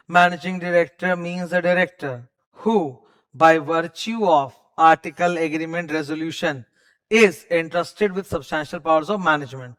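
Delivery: slow, drawn-out legal reading with pauses; stretched out reading. Shown as a demonstration. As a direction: spell out every clause, taking your time. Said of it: "अब थोड़ा खींचेंगे". (खींच-खींच कर धीरे पढ़ना)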